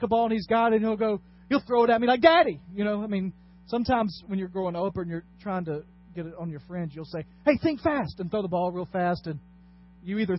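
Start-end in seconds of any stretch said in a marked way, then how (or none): 2.2-2.6 high, loud call to dad; imitated child's call. Imitates son throwing ball at him. 7.4-8.2 raised, playful call to a friend; mock sudden heads-up. Acts out prank on a friend.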